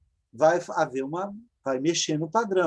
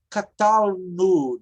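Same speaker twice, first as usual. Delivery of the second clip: 1 slow model; 4 dB louder, much slower than usual. Shown as a demonstration. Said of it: "é o mesmo padrão".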